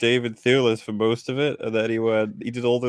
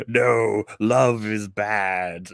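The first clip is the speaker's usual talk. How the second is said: slow, drawn-out hint of a villain; lightly hammed-up villain pronouncement; mock villain; 3 semitones lower, much slower than usual. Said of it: "The villain being like".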